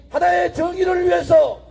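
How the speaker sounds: shouted, rising political oratory; roaring rally speech. Acted. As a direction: rouse the crowd at full voice. Rally speech at full force.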